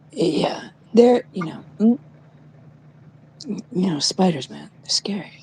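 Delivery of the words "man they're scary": hushed, spooky aside; mock spooky whisper. Telling her friend spiders are scary in a hush. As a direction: whisper it like a ghost story.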